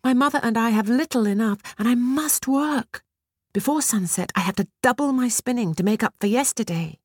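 put-on high, frightened pleading girl. A narrator's reading. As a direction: beg her to leave you be. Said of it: "she pleaded".

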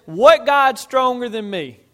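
loud, high, drawn-out royal challenge; boastful challenge. Retold or imitated. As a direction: fling out the challenge as a proud king. Preacher acts out the king's boastful challenge.

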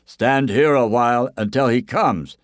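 lightly voiced storybook helpers; helpful villagers. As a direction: call the runner to stop and wait. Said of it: "they said".

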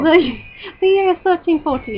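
shaky attempt at a British accent. Shown as a demonstration. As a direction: read it out in a put-on British accent. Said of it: "Do it in a British accent".

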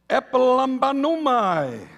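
Epilambanumai said slowly, syllable by syllable; Greek pronunciation. Shown as a demonstration. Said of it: "is a Greek word".

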